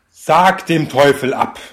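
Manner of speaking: slow, loud solemn command; slow exorcist command. Pretend. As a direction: intone it like an exorcist.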